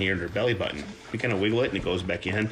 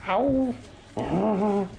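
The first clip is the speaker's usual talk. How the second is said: much higher playful yelp; squeaky ow; 13 semitones higher, much slower than usual. Real, not acted. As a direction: squeal at the bite. Nipped by puppy.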